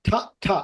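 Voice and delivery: short, separate aspirated "ঠা, ঠা"; T sound demo. Shown as a demonstration. Teacher shows students the T sound, isolated aspirated "ঠা". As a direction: say "ঠা, ঠা" as two crisp isolated T sounds. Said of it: "আর টি এর sound এইভাবে".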